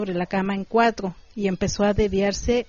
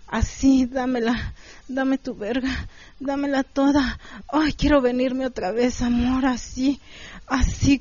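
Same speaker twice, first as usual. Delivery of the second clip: lightly acted moans of pleasure; understated acted pleasure; mild moaning plea; 3 semitones higher than usual. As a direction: plead with a touch of moaning, pitch a bit raised. Acted quote of partner in pleasure.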